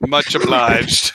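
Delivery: slow, lightly drawled Southern thanks. Acted. Player thanking the wizard, slow Southern drawl. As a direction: tip your hat and drawl it, cowboy style. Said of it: "he's a Southern man".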